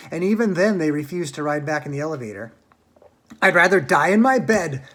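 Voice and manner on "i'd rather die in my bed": shout. A narrator's reading. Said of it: "shouted Grandma Josephine".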